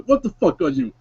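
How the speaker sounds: gruff, stunned veteran; a scarred vet seeing a monster; shocked old soldier. Acted. Bob the ghoul vet confronts Mister Stitches, stunned. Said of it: "Bob shakes his head and says".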